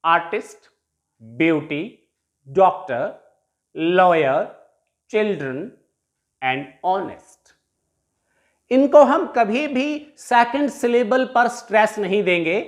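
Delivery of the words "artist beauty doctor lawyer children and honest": put-on "artist, beauty, doctor, lawyer, children and honest", each front-stressed; spaced repeat-after-me words, "artist" to "honest", first syllables strong. Shown as a demonstration. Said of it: "stress will be on the first syllable".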